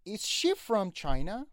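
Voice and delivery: slow question, "China" stressed on its opening "Chi". Shown as a demonstration. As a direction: lean on the "Ch" of "China", rising at the end. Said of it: "رو سی اچ هست استرس".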